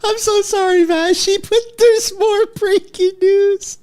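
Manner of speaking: high, slow, overexcited interruption; excited yelling. Real, not acted. Streamer interrupting the clip, overexcited, high and slow. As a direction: burst in to break the news. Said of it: "I'm sorry for screaming".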